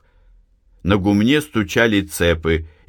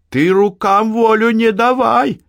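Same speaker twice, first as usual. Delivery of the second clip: high, loud warning shout; 5 dB louder than usual. A narrator's reading. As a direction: yell at her mother to stop. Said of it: "крикнула Анна". (крикнула громко)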